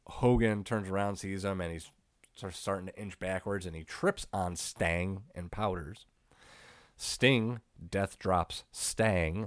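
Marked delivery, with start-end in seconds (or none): 6.9-9.5 very slow, deliberate, each word drawn out carefully. Narrating a wrestling match moment by moment, said slowly on purpose. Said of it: "Had to say that slow".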